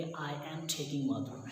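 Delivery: slow, careful teaching read; model sentence, slowly. Shown as a demonstration. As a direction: spell it out slowly for the class. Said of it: "आप क्या बोलेंगे?". (धीरे-धीरे सिखाते हुए)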